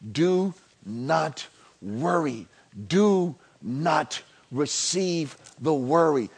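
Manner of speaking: slow, weighty, every word leaned on; emphatic scripture. Acted. Preacher quoting Jesus to the church, emphatically. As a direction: read it out with heavy emphasis. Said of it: "Jesus says emphatically".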